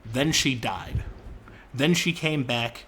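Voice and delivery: slow, deliberate fairy-tale telling; storyteller voice. Shown as a demonstration. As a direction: tell it like a bedtime fable, slowly. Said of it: "I will tell you the formula".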